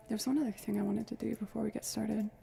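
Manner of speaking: smooth radio host tone. Real, not acted. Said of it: "Sorry about the radio voice".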